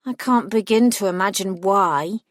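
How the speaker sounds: dry sarcastic jab; mock sympathy, dripping sarcasm. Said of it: "I said sarcastically".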